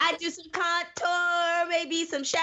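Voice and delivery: high, slow beauty-guru voice; mock makeup tutorial. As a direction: play a bubbly makeup vlogger.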